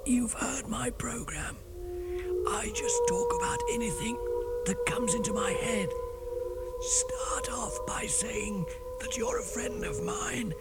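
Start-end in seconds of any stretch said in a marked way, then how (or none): 0.1-5.3 hoarse whisper, voice nearly gone; lost voice whisper. Acted. DJ who lost his voice, whispering. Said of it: "sounding like this". 6.8-10.5 hoarse whisper, voice nearly gone; lost voice whisper. Acted. DJ who lost his voice, whispering. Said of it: "sounding like this".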